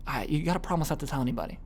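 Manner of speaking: hushed, secretive lead-in after a sigh; whisper tone. Shown as a demonstration. Gossiper asking a friend for secrecy, hushed whisper tone. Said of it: "because I dropped my tonality".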